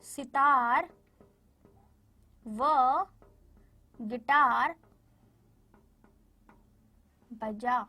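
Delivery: long pauses between सितार, व, गिटार and बजा; word by word. Shown as a demonstration. Teacher separating each word for the children with long pauses. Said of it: "हम उसे सीधा बोल देंगे".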